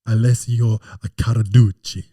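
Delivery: loud Australian-accented name. Shown as a demonstration. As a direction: belt the name out Aussie style. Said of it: "in an Australian accent".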